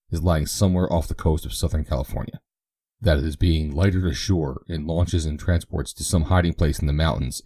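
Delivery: even, steady reading of a news article; newspaper read aloud. Acted. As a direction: read out the paper for the family. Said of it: "he read".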